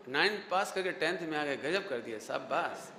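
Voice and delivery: low-pitched, approving well done; encouraging praise. Acted. Teacher acting out praise for passing ninth class, low encouraging tone. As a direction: praise a student, voice dropped low. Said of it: "ये जो tone है ना".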